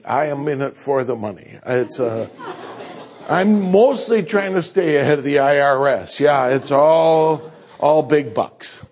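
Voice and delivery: dry tongue-in-cheek joke; deadpan brag about the money, then laugh; mock greedy preacher; joking. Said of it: "No, listen to me".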